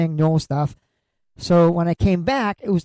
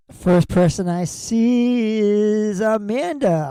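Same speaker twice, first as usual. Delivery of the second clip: drawn-out, swooping names in a chanted roll call; sing-song mirror announcer; slower than usual. Pretend. Host calling out people seen in the DGAF mirror, mock sing-song. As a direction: stretch and lilt it like a mock children's-show host.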